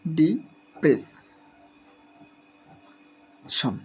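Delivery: ডিপ্রেশন split into very slow drawn-out syllables; teacher modelling ডিপ্রেশন very slowly. Shown as a demonstration. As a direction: stretch every syllable of ডিপ্রেশন. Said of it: "syllable ভেঙে ভেঙে".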